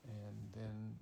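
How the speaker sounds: ordinary delivery, nothing marked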